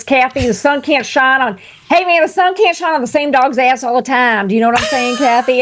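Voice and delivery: lightly imitating a Southern boss's country talk; a hint of the Alabama boss voice; Alabama drawl. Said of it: "but he talked like this".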